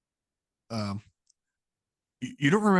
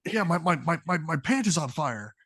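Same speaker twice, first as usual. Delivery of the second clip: panicked guard; 5 semitones higher than usual. Acted. Guard panicking about burning pants.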